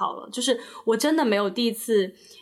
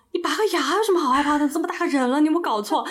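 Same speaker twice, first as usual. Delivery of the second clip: quick, raised mock scolding from a dad; 5 semitones higher, faster than usual. Dad scolds his grown kid for fearing dentists, quick mock scold. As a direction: brush off the fear like an impatient father. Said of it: "然后我爸说".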